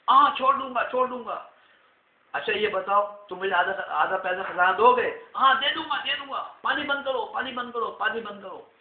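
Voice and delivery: high, loud desperate agreeing; desperate pleading. Acted. King promising everything to stop the flood, desperate. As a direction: agree to anything in panic.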